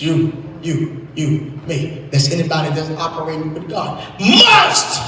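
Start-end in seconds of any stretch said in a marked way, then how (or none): 4.2-5.0 "must" punched much higher, alone; stress on must. Shown as a demonstration. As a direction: hit "must" high and hard. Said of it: "Underline the word must".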